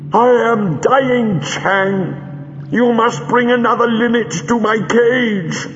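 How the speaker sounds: high, slow, rasping snarl; dry rasping voice. Acted. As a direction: force each word out through a rasp. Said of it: "Greel spoke in a dry, rasping voice".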